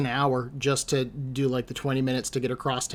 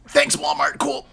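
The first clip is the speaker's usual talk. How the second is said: sarcastic; 5 dB louder than usual. Retold or imitated. Sarcastic thanks for being sent away.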